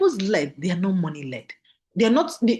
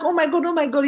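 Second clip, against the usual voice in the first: higher, thrilled oh my God; imitating a thrilled friend, higher pitched; excited squeal; 8 semitones higher than usual. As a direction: gush like you just got paid. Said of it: "So excitedly".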